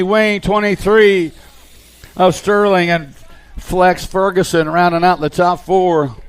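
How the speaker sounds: brisk race call, steady and driving; live play-by-play. Acted. Announcer calling the BMX race to the crowd, live play-by-play. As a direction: call the riders through every corner.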